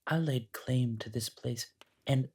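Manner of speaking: ancient creature voice. Acted. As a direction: purr it like a timeless thing amused by the guest.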